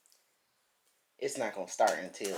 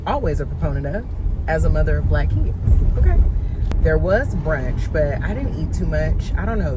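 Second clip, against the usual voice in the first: louder, higher car talk; loud over car noise; 4 semitones higher, 11 dB louder than usual. Real, not acted. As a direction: project over the road noise. Talking loudly while driving.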